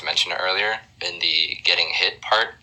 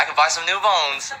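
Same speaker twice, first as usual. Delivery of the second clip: put-on excited kid; 11 semitones higher than usual. Kid thrilled about first pay.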